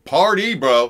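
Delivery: loud, high bro voice; hyped party shout. Pretend. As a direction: yell it like a frat party. Joking party shopping list.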